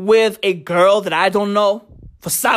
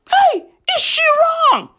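shouted question. Real, not acted. To the audience about the tweet, a shouted hey. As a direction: yell the question out. Rhetorical outburst.

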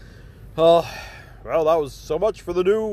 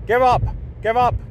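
commanding villain; 6 semitones higher than usual. Acted. Villain urging audience to despair.

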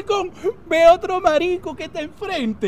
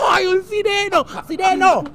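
higher mock-thrilled cry; excited calling; 4 semitones higher than usual. Man calling to the supposed merman, excited hailing. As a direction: hail the wonder out at sea.

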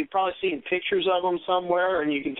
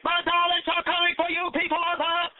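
higher, slow Dalek proclamation; booming arrogant alien overlord; 13 semitones higher than usual. Acted. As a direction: stretch out each EXTERMINATE coldly. Daleks threaten Earth.

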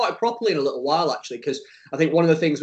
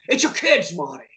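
Doc Brown. Retold or imitated. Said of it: "You just love doing that accent".

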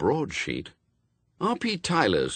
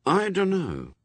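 thoughtful; 10 semitones higher than usual. A narrator's reading. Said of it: "said Adam thoughtfully".

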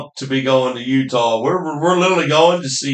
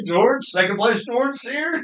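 laughing tease; 9 semitones higher than usual. Real, not acted. Laughing teasing about second place.

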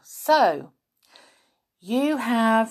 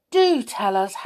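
delighted; 5 dB louder than usual. Acted. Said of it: "cried Molly in delight".

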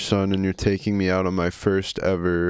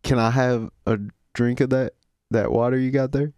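Southern son asking a favour; Southern accent. Acted. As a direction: ask Daddy with a Southern accent. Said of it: "Southern accents?".

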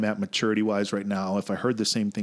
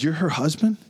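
retold disbelief; 6 semitones higher than usual. Acts out disbelief at husband's reveal.

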